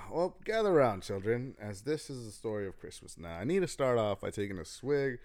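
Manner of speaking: lightly voiced old storyteller. Opens the Christmas story.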